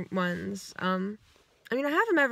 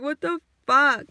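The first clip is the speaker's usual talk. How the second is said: mock shout; 5 semitones higher, 7 dB louder than usual. Imagined friend reacting to video.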